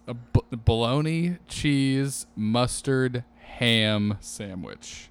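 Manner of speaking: "bologna", "cheese", "mustard" each set apart, then a drawn-out "ham sandwich"; listed word order. Shown as a demonstration. Naming his childhood sandwich as always said, item by item. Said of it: "this is how I would always say it".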